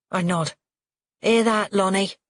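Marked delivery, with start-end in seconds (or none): 1.2-2.2 loud, jeering taunt in a rough voice; sneering. A narrator's reading. Father goading his son, sneering. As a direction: sneer it at him. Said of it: "Tel sneers".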